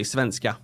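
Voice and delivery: SVENSKA in natural Swedish, pitch falling at the end; normal Swedish. Shown as a demonstration. Swede showing the everyday pronunciation, SVENSKA unexaggerated. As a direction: svenska said plainly as a Swede would. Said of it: "if I would speak, like, normally, like, Swedish".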